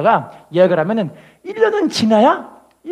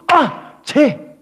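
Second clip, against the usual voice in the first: very slow, drawn-out awed gasp; amazed director; 4 semitones higher, 3 dB louder, much slower than usual. Retold or imitated. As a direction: stretch it out in wonder. Impressed director spotting singer.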